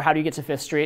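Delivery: flat ending on fifth street, no rise. Showing a neutral, factual way of asking directions: flat ending on Fifth Street. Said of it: "my tonality wasn't even a questioning tonality".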